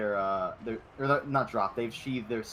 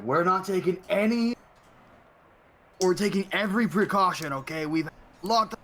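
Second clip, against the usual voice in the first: loud, firm guard warning; stern guard shout; 6 semitones higher, 4 dB louder than usual. Acted. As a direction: bark orders at the prisoner. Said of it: "and they're like".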